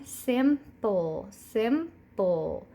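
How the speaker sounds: Simple said in two beats, sim-ple; syllable demo. Shown as a demonstration. Teacher saying Simple with hand under chin. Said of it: "we're going to say that word".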